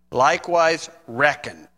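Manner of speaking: a hint of a southern accent on "reckon". Preacher joking to congregation, lightly mock southern accent. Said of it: "throw in the southern accent, you know, the redneck accent".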